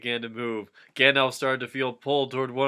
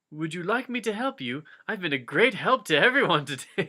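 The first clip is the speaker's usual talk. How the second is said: mock helpful Frodo; 5 semitones higher, 3 dB louder than usual. Frodo's offer.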